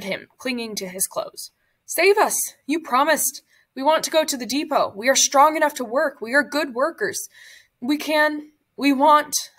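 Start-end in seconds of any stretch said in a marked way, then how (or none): 1.9-9.5 high, urgent begging; desperate pleading. Acted. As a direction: beg for your lives, pitched up and pressing. Prisoners begging the Block Altiste.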